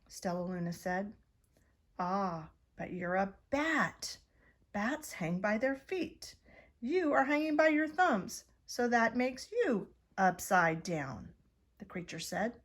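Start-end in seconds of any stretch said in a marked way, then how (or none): 2.0-11.3 a hint of a bat, rising on thumbs; bemused bat explaining; lightly voiced curious bat. Strange bat explaining to Stella Luna, lightly voiced.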